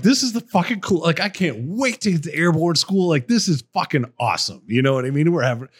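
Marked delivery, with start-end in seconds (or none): 0.0-4.6 put-on high, gushing young recruit; mock his younger self's eager thrill; a touch of overexcited kid; naive excitement. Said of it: "I'm like".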